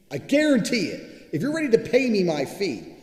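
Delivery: emphatic shout. Real, not acted. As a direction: yell it like a vow. Insisting rant on getting paid.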